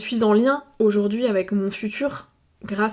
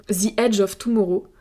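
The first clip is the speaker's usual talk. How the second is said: "The Edge of Tomorrow" with a French accent, "ze adge of toumoro"; English title said the French way. Real, not acted. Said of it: "pardon, mon accent français". ("The Edge of Tomorrow" avec l'accent français)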